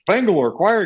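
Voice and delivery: the band name as a high question, rising at the end; surprised echo. Retold or imitated. Owner recognizing band name, surprised rising question. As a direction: echo the band name in astonishment, pitch lifting.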